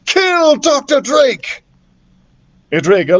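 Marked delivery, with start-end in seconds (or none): 0.1-1.6 villain's command. A narrator's reading. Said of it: "cried Ignatius".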